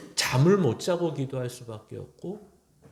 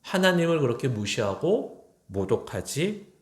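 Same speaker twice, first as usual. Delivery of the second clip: preacher voicing God rebuking King Saul, heated; God's rebuke; 4 semitones higher than usual. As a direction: build the scolding to a passionate peak. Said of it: "이렇게 얘기하는 겁니다".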